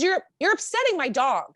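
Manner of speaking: put-on high, prim old lady voice; high prissy complaint from an old lady; fussy old lady. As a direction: scold like an uptight neighbour. Old lady scolding again.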